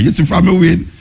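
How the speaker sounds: ordinary delivery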